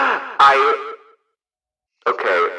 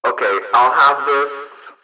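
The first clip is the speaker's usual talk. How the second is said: megaphone voice changer. Real, not acted. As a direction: talk through a megaphone effect. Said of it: "it should sound like a megaphone".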